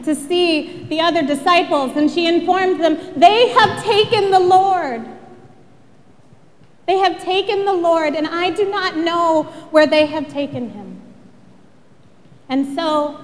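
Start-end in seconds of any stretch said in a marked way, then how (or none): 3.2-11.0 raised, higher-pitched urgent announcement; alarmed report. Acted. Mary tells the other disciples the tomb is empty, urgent and raised. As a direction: break the news with urgency.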